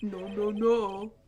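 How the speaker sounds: laughing through the words; giggling while reading. Real, not acted. Repeats the line laughing.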